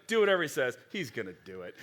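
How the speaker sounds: clipped then dropping off, pointedly; passive aggressive. Retold or imitated. Mother telling servants, mock passive aggressive. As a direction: hand off the order with a knowing edge. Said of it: "is she being super passive aggressive".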